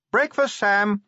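high-pitched call from the doorway; wife calling out. A narrator's reading. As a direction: call your husband in a high voice. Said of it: "called Sybil from the doorway".

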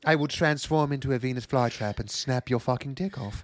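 breathy sultry delivery. Retold or imitated. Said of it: "the sultry voice tones".

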